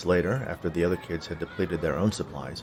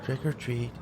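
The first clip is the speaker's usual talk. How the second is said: tag low reluctant voice; 4 semitones higher, 7 dB quieter than usual. A narrator's reading. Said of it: "he said in a low voice".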